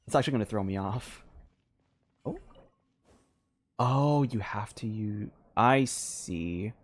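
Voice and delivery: ordinary talk, nothing marked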